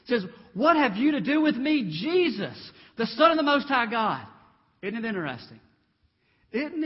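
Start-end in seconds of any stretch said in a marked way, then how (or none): 0.5-4.2 demon crying out, loud and high. Acted. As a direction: call out loud and high in alarm. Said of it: "Crying out in a loud voice".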